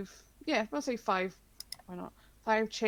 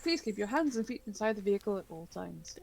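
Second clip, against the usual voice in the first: ride safety announcement; faster than usual. Retold or imitated. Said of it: "yeah, it's like".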